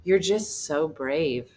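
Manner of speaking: slow, mock-sincere compliment; faint praise. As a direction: imitate a pitying compliment, drawing it out. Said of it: "He goes".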